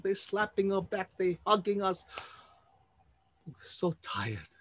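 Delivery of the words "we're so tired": slow, soft, drained delivery; exhausted. Acted. Rescued battalion soldiers are spent, slow and drained. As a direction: speak as if barely standing.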